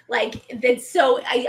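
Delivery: normal talking voice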